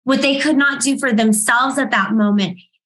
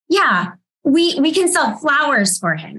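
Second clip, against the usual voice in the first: lightly voiced eager little boy, higher; imitating her young son; 4 semitones higher than usual. Mother telling the audience her son's idea, a light child voice.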